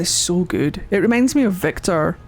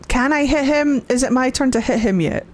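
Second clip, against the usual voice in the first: higher-pitched eager begging; eager pleading; 5 semitones higher than usual. Real, not acted. Pleads eagerly to attack game villain.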